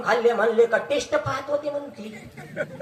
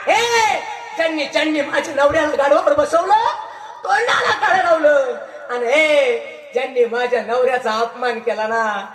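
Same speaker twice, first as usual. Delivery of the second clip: louder, rising indignant outburst ending in a curse; wife's outrage; 3 dB louder than usual. Retold or imitated. Wife sees her husband shamed, loud indignant cry. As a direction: defend her husband, voice swelling with anger. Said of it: "आली आणि पाहते".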